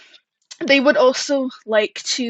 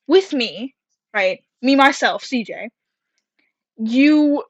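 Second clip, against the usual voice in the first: stern teacher voice; 3 dB louder than usual. Retold or imitated. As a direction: lay down the law like a teacher. Teacher's warning retold.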